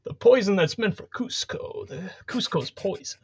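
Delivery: half-whispered dim henchman impression; Patrick Warburton. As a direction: muddle through it conspiratorially, dropping into a whisper. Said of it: "an hour of Patrick Warburton".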